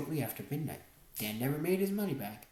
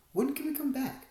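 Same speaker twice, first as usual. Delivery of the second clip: nervous, much higher question; mildly nervous, higher-pitched plea; 10 semitones higher, 4 dB louder than usual. A narrator's reading. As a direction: anxiously ask it, pitch jumping up. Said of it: "I asked nervously".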